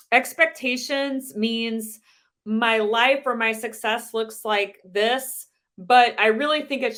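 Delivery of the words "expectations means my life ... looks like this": slow, spaced-out delivery with pauses; slow explaining. Real, not acted. Trainer defining the first point for note-takers, slowly. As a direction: explain it slowly, pausing between phrases. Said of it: "I'll say them slowly".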